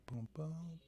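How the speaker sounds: garbled, dropping-out mic sound; scrambled voice. Real, not acted. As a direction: talk through a broken, cutting-out line. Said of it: "your audio is garbled".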